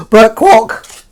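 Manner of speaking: imitating his own starstruck shriek on seeing Bert Kwok; starstruck gasp. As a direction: gasp out the name like a starstruck fan.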